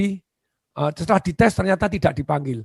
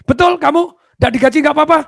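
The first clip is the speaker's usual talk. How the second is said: astonished disbelief; 10 semitones higher, 8 dB louder than usual. Acted. HR lady amazed at applicant.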